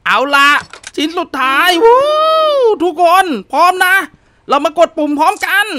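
high, loud cheer to the team; excited rally. Real, not acted. Player rallying teammates for the final button, excited. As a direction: pump everyone up.

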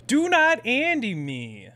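high, slow, emphatic telling-off; indignant rebuke. Real, not acted. Streamer telling chat off, indignant rebuke. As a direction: scold them one word at a time.

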